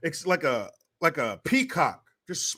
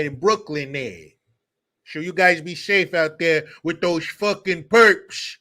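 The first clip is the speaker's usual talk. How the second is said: slow, hammed-up Brooklyn Italian accent; mock Italian-American accent; 3 dB louder than usual. Spoofing an action star as Brooklyn cop, mock Italian accent. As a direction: drag it out in a bad movie Italian-American accent. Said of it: "his Italian accent was".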